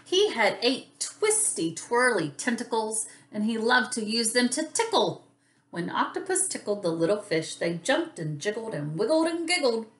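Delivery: lively, lilting picture-book narration; story read to children. A narrator's reading. Teacher reads about a tickly octopus to children, lilting storytelling. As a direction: read it playfully for small children.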